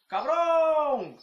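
sudden loud insult yelled high; street shout. Retold or imitated. A stranger yelling an insult down the street. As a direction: yell it across the street at nobody.

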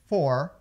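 "for" with the R curled back in the throat; R desenrolado. Shown as a demonstration. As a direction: roll back the R ending "for". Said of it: "aquele som desenrolado na parte de trás da garganta". ("for" com R na garganta)

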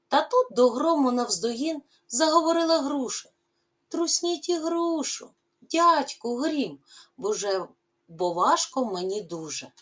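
lively, rising and falling poem recital; expressive poem reading. Acted. Teacher reading the poem to pupils, expressive recital. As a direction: read the verse to the class with feeling.

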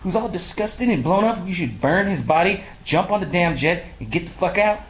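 high, outraged disbelief; high-pitched exasperated rant; incredulous rant. Retold or imitated. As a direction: squeal it like you can't believe it. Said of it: "I was like".

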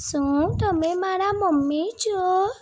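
put-on high-pitched baby-bird question; little chick asking. A narrator's reading. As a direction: ask in a tiny, high chick voice. Chick asks if crow is mother.

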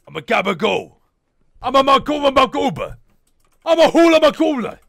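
silly fake-Italian gibberish accent; mock Italian. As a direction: babble like a cartoon Italian, hammed-up. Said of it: "I speak fluent Italian".

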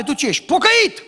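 mock proud self-important churchgoer; smug boast. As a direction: show off being holy. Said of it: "îți vine să te dai mare".

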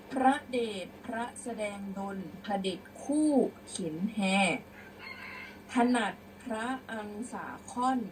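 measured model reading of verse; prose-style recitation. Shown as a demonstration. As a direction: read out old verse phrase by phrase. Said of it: "เดี๋ยวครูจะอ่านเป็นร้อยแก้ว".

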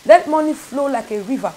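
building, declaring prayer over the honey; fervent prayer. Acted. Preacher leading listeners in prayer, growing fervent. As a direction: pray with rising conviction.

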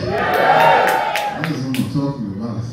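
put-on deliberate African-accented stand-up delivery. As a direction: address the room as an African newcomer. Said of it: "I don't talk like that for real".

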